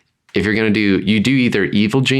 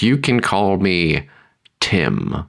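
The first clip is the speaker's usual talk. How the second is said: a lightly voiced Tim the Enchanter; slow ominous reveal of the name; Monty Python Tim; much slower than usual. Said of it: "makes me think of the Monty Python".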